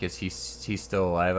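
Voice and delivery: ordinary talk, nothing marked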